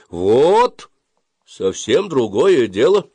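high, loud, stretched praise; hearty approval. A narrator's reading. Boy leader praises his yelling friends, approving. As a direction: cheer them on with satisfaction. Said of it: "одобрил нас Колупаев".

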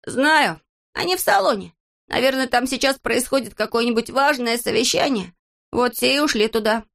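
high, confident character voice; Незнайка's bright idea. Acted. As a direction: pitch it up as he works out where everyone went.

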